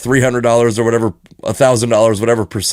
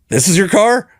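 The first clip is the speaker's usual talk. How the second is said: put-on shaky-at-best British accent, pitched up; 8 semitones higher than usual. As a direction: attempt a British accent on an incredulous, rising question. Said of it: "that's my British accent, by the way".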